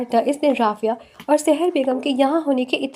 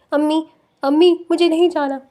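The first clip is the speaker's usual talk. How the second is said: higher, louder tearful cry for mother; 3 semitones higher, 3 dB louder than usual. Acted. Daughter dragged away cries for her mother, louder and higher. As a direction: call out as you are dragged away. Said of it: "رافعہ روتے ہوئے چلائے".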